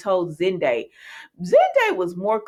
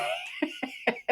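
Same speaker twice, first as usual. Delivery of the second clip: high squealing laugh; 11 dB quieter than usual. Real, not acted. Laughs mid-scolding.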